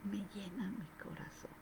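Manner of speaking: a soft, hushed whisper. Shown as a demonstration. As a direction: drop it to a near whisper, intimate. Repite la frase susurrando. (susurrado, muy suave)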